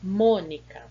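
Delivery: "Mônica" with a loud, long MÔ; "Mônica" said as MÔ-nica, stress up front; stressed first syllable. Shown as a demonstration. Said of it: "a sílaba tônica é a antepenúltima".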